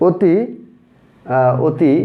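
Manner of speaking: অতি repeated with the অ said as ও, "oti"; closed o demo. Shown as a demonstration. Teacher repeating অতি for pupils to hear the o sound. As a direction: say অতি slowly as "oti", rounded o. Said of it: "এখানে অ এর উচ্চারণটা ও এর মতো হচ্ছে".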